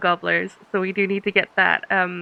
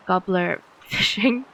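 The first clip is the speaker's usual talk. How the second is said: laughing; 2 semitones lower, slower than usual. Real, not acted. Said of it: "I cannot say gobbler with a straight face".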